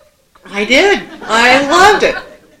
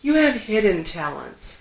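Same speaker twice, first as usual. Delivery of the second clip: soothing mother; 4 dB quieter than usual. Retold or imitated. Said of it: "she rubbed my back".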